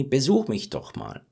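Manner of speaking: friendly, inviting Besuch mich doch mal; nicer invitation. Shown as a demonstration. Teacher demonstrating a friendly invitation. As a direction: soften it into a welcome. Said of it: "Sounds even nicer".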